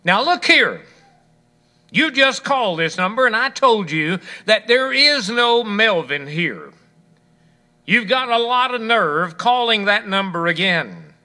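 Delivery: sharp, irritated phone reply, pitch up at the start; heated reply. Acted. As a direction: tell off a caller who rang twice. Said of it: "The heated reply came back".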